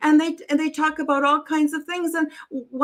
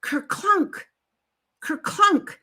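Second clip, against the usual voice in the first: higher-pitched imitated clunk; clunking noise imitation; 5 semitones higher, slower than usual. Storyteller voicing a broken disc's clunk, imitated noise. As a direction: say it as the thing clunking. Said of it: "something goes kerclunk".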